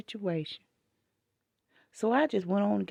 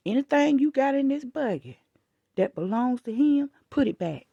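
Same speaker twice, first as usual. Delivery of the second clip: louder, bossy telling-off; retold lecture to the grandfather, louder; 4 dB louder than usual. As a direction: order the grandfather around. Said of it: "I said".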